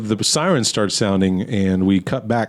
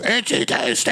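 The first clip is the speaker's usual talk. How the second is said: mock scream; 7 semitones higher, 3 dB quieter than usual. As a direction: scream it half-volume, as in a retelling. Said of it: "scream runs at Claire and goes".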